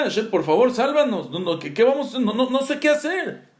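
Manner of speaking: hammed-up begging with stammered repeats; retold desperate prayer. Moshe prays to Hashem to save them, acted desperate plea. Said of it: "estaba diciendo tefilá".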